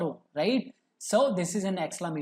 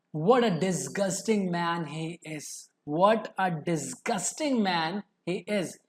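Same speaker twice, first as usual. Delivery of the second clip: disgust; slower than usual. Shown as a demonstration. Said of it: "I am disgusted at this man".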